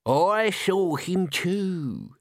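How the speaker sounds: high, very drawn-out eerie voice; theatrical old doom-monger; ghoulish old man. A narrator's reading. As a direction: savour it like a ghost story.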